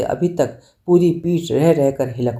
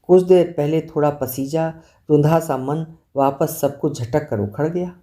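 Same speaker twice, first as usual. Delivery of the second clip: plain reading voice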